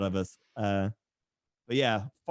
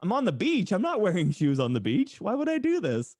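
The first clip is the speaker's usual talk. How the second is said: incredulous disbelief; 8 semitones higher than usual. Retold or imitated. Teen defending his sandals to a stranger, high and incredulous. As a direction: squeak out the outrage in disbelief. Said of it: "And I'm like".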